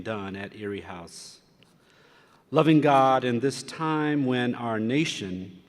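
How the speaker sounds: prayer. Acted. Leads invocation prayer at dinner.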